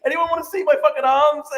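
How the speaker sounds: hammed-up brag to the crowd; lightly voiced preening streamer; Hassan impression. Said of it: "It's just Hassan, just like".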